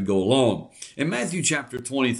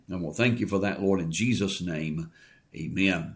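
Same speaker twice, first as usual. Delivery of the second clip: prayer. Real, not acted. Leads a prayer.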